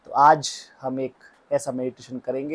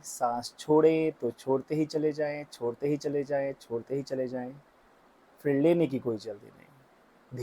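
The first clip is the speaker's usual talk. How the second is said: guided breathing meditation. Real, not acted. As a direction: draw out the breathing cues evenly.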